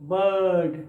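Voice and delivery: बर्ड said bəd, r dropped; बर्ड with the र hidden; silent r. Shown as a demonstration. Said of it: "तो उसमें र छुपा रहता है". (बर्ड बिना र के)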